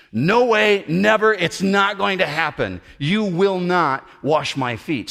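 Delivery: high, loud flat no that slows at the end; emphatic refusal. Retold or imitated. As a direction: refuse with total insistence. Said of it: "He was being emphatic".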